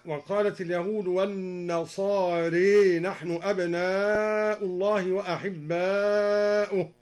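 "والنصارى" recited with its ending bent to a long e; imala. Shown as a demonstration. Reciter demonstrating the verse, imala on "والنصارى". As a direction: tilt the final alif of "والنصارى" toward e. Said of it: "وأمال النصارى من قوله تعالى".

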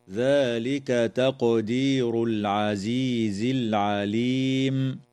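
slow recitation, a bouncing echo on the qaf of "تقدير"; Quran recitation. Shown as a demonstration. Teacher recites the verse for the class, slow measured recitation. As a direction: recite slowly, letting the qaf of "تقدير" rebound.

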